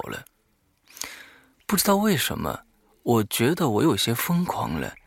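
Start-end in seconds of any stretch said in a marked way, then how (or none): none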